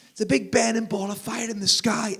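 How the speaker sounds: put-on high-pitched excited child voice; mock kiddie announcement, pitched high; eager little kid. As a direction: pipe up like a keen small child. Children explaining to the robot.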